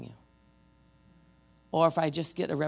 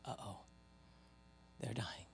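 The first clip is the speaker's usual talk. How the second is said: retold uh-oh; 5 semitones lower, 16 dB quieter than usual. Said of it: "I'm like".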